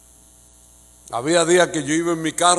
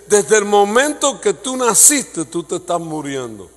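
slow pronouncement; 6 semitones higher, 7 dB louder, slower than usual. Acted. God's blunt verdict, slow.

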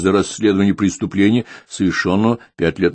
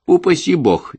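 put-on old woman; 12 semitones higher, 4 dB louder, slower than usual. Old woman's startled outburst.

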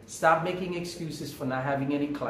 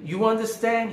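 higher, pointed "You understand?" as a challenge; incredulous echo; 7 semitones higher, 3 dB louder than usual. Retold or imitated. Neighbor repeating the narrator's answer back, incredulous and higher. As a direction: throw his words back at him.

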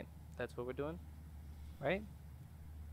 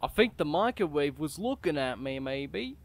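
an odd, unfamiliar voice he can't explain; a weird voice slipping out unbidden; terrible voice; 3 dB louder than usual. Real, not acted. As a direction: say it in a strange voice that puzzles even you. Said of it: "Don't know why I sound like this".

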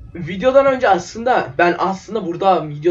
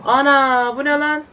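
startled; 8 semitones higher than usual. Real, not acted. Startled by something in game.

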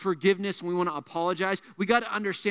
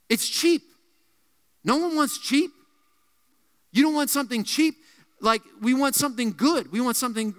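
fervent preaching; 3 semitones higher than usual. Real, not acted. Preaching rises emphatically.

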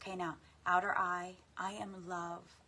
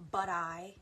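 spoken out loud; 5 dB louder than usual. Shown as a demonstration. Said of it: "say it".

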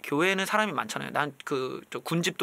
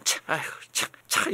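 grudging sigh; 3 dB quieter than usual. Retold or imitated. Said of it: "이러면서".

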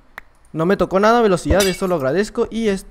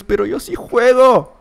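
slow, lightly voiced know-it-all viewer; imitating a viewer who says he plays fine; mock viewer; 4 semitones higher, 3 dB louder, slower than usual. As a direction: drag it out like a smug commenter. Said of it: "Van a decir muchos".

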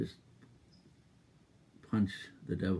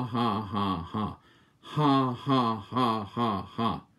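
forced laughter; much slower than usual. Retold or imitated. Preacher showing Hagin laughing at the devil. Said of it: "he started doing this".

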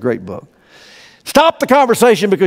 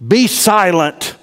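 slow be silent; 5 semitones higher, much slower than usual. Shown as a demonstration. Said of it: "Leave it to God".

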